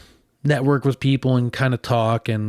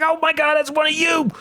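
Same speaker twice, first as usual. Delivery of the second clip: shocked exclamation. Retold or imitated. Hearing about hand sanitizer and cranberry juice, shocked disbelief. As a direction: blurt it out in shock.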